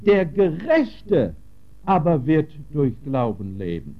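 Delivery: "Gerechte" slowed and lifted up front; stress on Gerechte. Shown as a demonstration. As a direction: drag out "Der Gerechte" before the rest. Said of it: "dann müssen wir das Wort gerecht unterstreichen".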